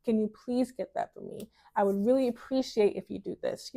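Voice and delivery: gentle, well-mannered ask; soft, delicate request. Shown as a demonstration. Woman showing how to ask with manners, soft and delicate. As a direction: ask softly and graciously. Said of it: "using this soft, delicate language".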